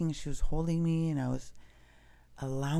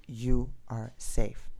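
slow command; 2 semitones lower, much slower than usual. Retold or imitated. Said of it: "it seemed like even a command".

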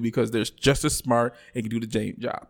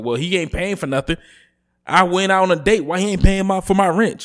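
mock entitled woman; 5 semitones higher than usual. Mocking entitled woman's demands.

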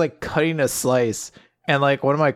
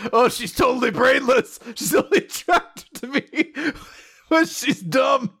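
much higher, laughing through a dopey crush; mock smitten voice; 10 semitones higher than usual. Joking in chat about Ninokuru's crush, laughing high mock gush. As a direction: gush about the brainless girl while cracking up.

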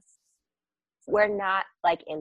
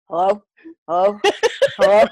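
lightly imitated call through a window; a hint of a calling brother; mock calling out; 6 dB louder than usual. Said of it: "I hear go".

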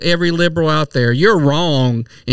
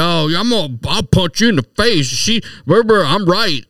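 mock quote; 2 semitones higher than usual. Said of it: "You didn't hear me say".

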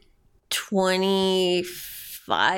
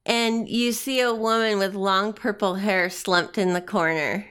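measured reveal, falling at the end; game master narration. Acted. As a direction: unveil the slumped woman calmly. Game master sets the scene.

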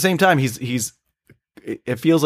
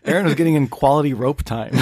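laughing through the words; trying not to crack up; 2 semitones higher than usual. Real, not acted. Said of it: "Couldn't even get through that one".

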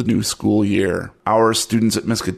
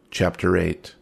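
dramatic whisper; 5 semitones lower, 6 dB quieter, slower than usual. Acted. Dramatic chapter title.

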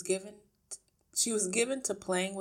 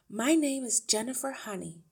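lightly voiced teacher, pitched higher; a hint of prim courtesy, louder and higher; polite teacher; 7 semitones higher, 8 dB louder than usual. A narrator's reading. Miss Honey introduces herself to the wife, polite.

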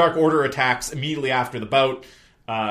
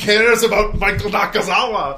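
high, loud theatrical whine; mock outrage; 8 semitones higher, 9 dB louder than usual. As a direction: wail in exaggerated hurt. Mock complaint about nobody caring.

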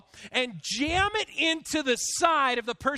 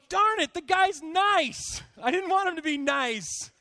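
hammed-up exasperation; mock frustration; 4 semitones higher than usual. Acts out his frustrated inner reaction.

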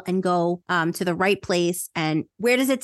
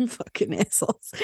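muttered insult. Acted. Laughing king mocks the heroes.

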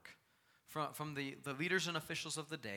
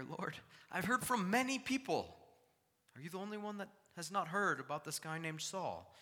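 high, loud exasperated plea; mock incredulous Ananias; 8 semitones higher, 7 dB louder than usual. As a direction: Ananias pushing back at Jesus, incredulous. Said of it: "I almost picture that right here".

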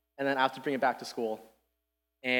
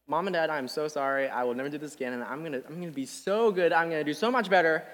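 rehearsed apology; 2 semitones higher, faster than usual. Retold or imitated. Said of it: "I'd be like".

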